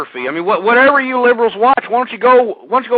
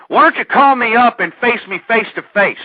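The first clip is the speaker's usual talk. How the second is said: usual speaking voice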